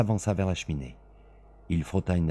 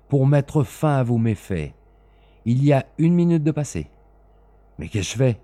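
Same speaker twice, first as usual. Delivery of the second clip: relentless avenger; 7 semitones higher, 8 dB louder than usual. Acted. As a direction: count each minute like a sentence. Smith counting the minutes.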